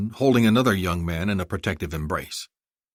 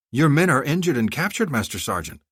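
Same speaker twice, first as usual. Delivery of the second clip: confused; 7 semitones higher than usual. Acted. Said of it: "Azar said, confused".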